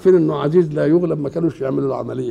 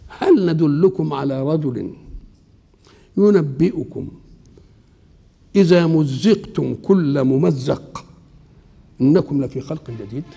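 slow measured chanting of the verse; Quranic recitation; slower than usual. Acted. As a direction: recite it slowly like scripture.

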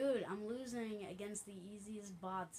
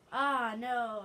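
loud, raised-pitch outburst; dismayed shout; 5 semitones higher, 15 dB louder than usual. Real, not acted. Player who has just been shot, dismayed shout. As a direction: cry out at a sudden setback.

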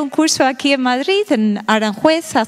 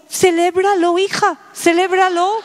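cheerful advice; 5 semitones higher than usual. Retold or imitated.

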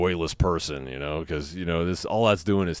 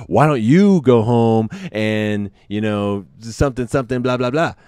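retaliatory tone; 3 semitones higher, 5 dB louder than usual. Retold or imitated. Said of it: "he had that retaliatory tone".

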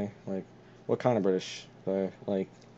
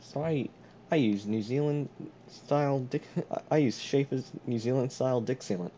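lightly faked New Zealand accent; 3 semitones higher than usual. Shown as a demonstration. Joking sealant testimonial for a friend, New Zealand accent. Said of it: "how about I do a New Zealand".

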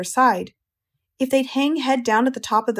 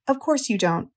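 comforting; 2 semitones higher than usual. Acted. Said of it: "in a comforting voice".

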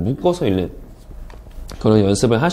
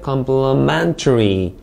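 slow "complementary", stress on MEN; com-ple-MEN-tary, "complementary" drawn out; careful word stress; much slower than usual. Shown as a demonstration. Teacher models "complementary" for students, careful word stress. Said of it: "강세를 잘 주의해서".

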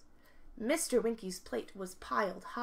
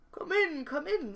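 lightly voiced farmer, higher swooping call; farmer's hearty welcome; 6 semitones higher than usual. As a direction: call a guest in, pitch falling on each word. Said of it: "said the farmer".

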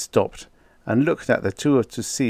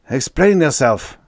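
hoarse, raised demand; 6 semitones higher, 7 dB louder than usual. A narrator's reading. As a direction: rasp it out, louder. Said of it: "the general said hoarsely".

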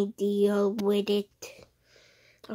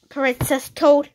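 higher voice; 5 semitones higher, 9 dB louder than usual. Acted. Naming voice.

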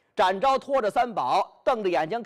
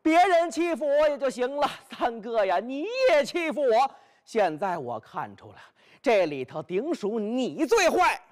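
aggrieved rant; 4 semitones higher than usual. Acted. Bai Yutang rails at his sworn brothers.

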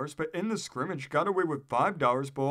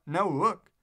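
called out; 4 semitones higher, 4 dB louder than usual. A narrator's reading. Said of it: "and called out".

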